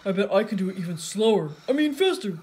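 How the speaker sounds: loud, dopey boast; Patrick. A narrator's reading. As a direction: boast loudly, then correct yourself. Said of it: "shouted Patrick".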